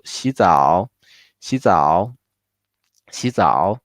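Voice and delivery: 洗 only rising, 澡 full third tone; half third tone. Shown as a demonstration. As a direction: clip 洗 to its rise in 洗澡. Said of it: "only keep the rising part".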